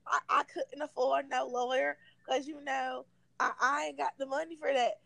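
a hint of her country accent, quick; imitating her accent. Baby mom telling Rich she has no lawyer, in a light country accent. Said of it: "I'm gonna try to do her accent".

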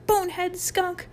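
very high-pitched name-calling; screamed insults. A narrator's reading. Mike screams names at Harold, high-pitched. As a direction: yelp out each insult. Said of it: "screamed Mike back".

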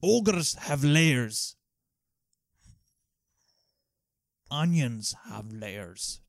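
ogre impression. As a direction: drag out each word like a lumbering ogre. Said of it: "That was believable".

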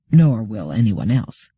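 low, slow and grim. Acted. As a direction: let a grim edge creep in. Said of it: "with a sudden edge of grimness to his voice".

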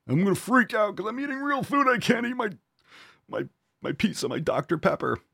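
hammed-up panic over losing pizza; mock panicky whine. Mocking panicked junk-food eater.

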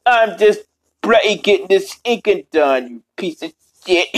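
lightly voiced British-slang character; Robotnik Cat sixty-nine. Streamer griping about inking, lightly in character voice. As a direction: keep a touch of the cartoon insulter. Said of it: "Why the bloody hell am I talking like that?".

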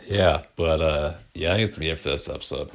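tired, worn-out voice; voice giving out. Real, not acted. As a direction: talk through a voice that is giving out. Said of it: "My voice is giving out".

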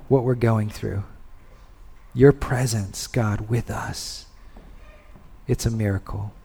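hushed closing prayer. Real, not acted. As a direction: pray gently for the people.

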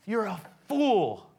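loud, high, outraged; angry accusation. Acted. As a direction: yell at him like a fool. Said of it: "They're saying".

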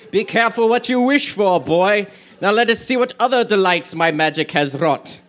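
lightly voiced cartoon villain; a hint of an evil sorcerer; gloating villain. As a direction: savor the gloat, theatrically. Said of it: "crackled Jafar".

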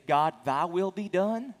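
slow, lightly voiced surrender to God; a person's surrender. Preacher quoting a person yielding to God, slow and lightly voiced. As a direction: give in to God, unhurried. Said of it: "you'll either say".

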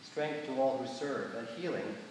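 measured liturgical prayer voice; prayer reading. Acted. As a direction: lead the congregation in solemn prayer. Leads prayers of the people.

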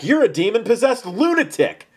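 loud, high-pitched angry accusation; yelling back. A narrator's reading. The crowd hurls an accusation back at Jesus, yelling. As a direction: yell it back as an insult. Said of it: "They yelled back".

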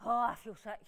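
low, soft, queasy groan; hushed and deflated; sick with shock. Acted. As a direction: say it weakly, as if about to be sick. Sickened by the bad news.

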